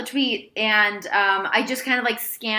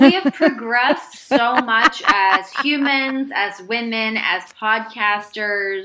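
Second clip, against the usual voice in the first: mock grandiose; 6 dB louder, much slower than usual. Mock grand statement, slowed.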